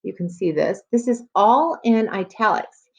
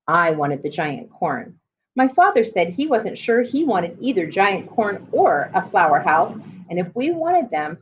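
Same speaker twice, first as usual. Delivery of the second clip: put-on reading to children. Teacher reading a chapter book to students, storybook voice. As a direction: clear storybook read-aloud.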